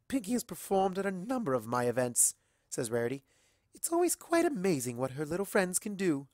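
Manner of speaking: gracious praise; refined Rarity. Acted. Rarity praising Pinky, a light refined voice.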